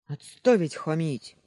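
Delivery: put-on sentry shouting down the cheeky boy; angry command. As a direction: cut the boy off hard. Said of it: "обозлился часовой".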